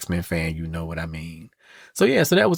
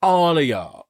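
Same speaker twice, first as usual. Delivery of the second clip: mock outrage; 5 semitones higher than usual. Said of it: "I'd have been like".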